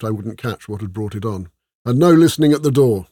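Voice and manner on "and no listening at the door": loud growled warning; rough growl. A narrator's reading. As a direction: growl a warning at the departing steward. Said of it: "the voice growled, deep and rough".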